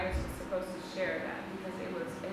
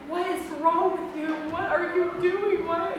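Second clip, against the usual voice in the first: higher, louder, slow alarmed yell; retold yelling husband; 8 semitones higher, 8 dB louder than usual. Husband woken in the night yelling at his wife, alarmed shout. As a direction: shout it like he just woke up scared. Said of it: "he's screaming at me".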